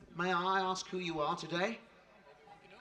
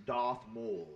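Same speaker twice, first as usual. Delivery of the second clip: measured, formal tribute narration; polished stage-host read; scripted presenter read. Real, not acted. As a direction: present the show's achievements to an audience. Host reads scripted show introduction.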